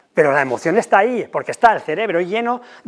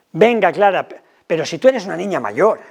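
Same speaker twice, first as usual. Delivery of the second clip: brushing-off parent. Shown as a demonstration. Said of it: "Sí, hombre, tengo seis años".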